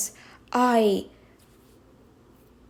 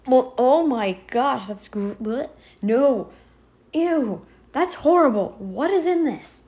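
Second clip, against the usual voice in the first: mock disgust. Acts out tasting foul water.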